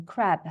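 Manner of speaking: "crab" slowly, with a fully voiced final b; English "crab" ending on an audible b; clear final B. Shown as a demonstration. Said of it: "And you can hear that".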